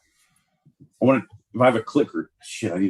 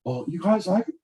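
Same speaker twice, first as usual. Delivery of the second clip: put-on higher, halting kid voice breaking into laughs; eager little boy; 4 semitones higher, faster than usual. Little George calling to his brothers, eager child. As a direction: plead like a small kid.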